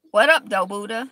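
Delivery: loud casual holler to Buddha; calling out. Real, not acted. Greeting the Buddha, a loud playful call. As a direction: shout a greeting at the statue.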